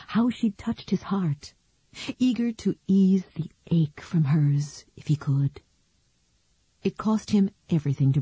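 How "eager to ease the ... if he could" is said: whisper. A narrator's reading. Tender narration, unvoiced.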